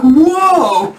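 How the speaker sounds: high, loud drawn-out whoa; mock amazement. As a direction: burst out in hammed-up wonder. Daydream of princess falling from sky.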